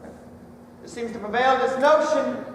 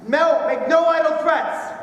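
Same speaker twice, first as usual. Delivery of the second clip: raised, insistent warning; impassioned oratory. Acted. Orator to angry workers about McCormick, impassioned warning. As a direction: drive the warning out over the crowd.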